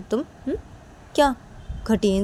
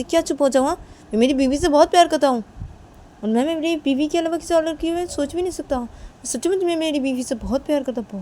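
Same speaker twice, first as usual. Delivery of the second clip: raised-pitch, heated declaration; defiant insistence; 5 semitones higher, 3 dB louder than usual. Acted. Refusing silence while declaring love for the wife, defiant. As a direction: push back and insist on the love.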